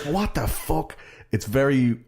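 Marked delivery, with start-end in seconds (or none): 0.1-1.0 mock disbelief. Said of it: "You're like".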